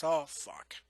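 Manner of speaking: hushed breathy whisper of dismay; quoting Rick's whispered curse on hearing who it was. Retold or imitated. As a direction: whisper it like bad news just landed. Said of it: "And Rick goes".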